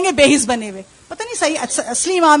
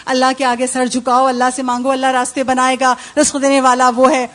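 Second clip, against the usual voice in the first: mother urging; 3 semitones lower than usual. Retold or imitated. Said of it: "ماں نے کہا".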